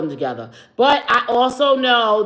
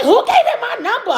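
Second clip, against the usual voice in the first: laughing quote; 9 semitones higher, 3 dB louder, faster than usual. Retold or imitated. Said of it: "I was like".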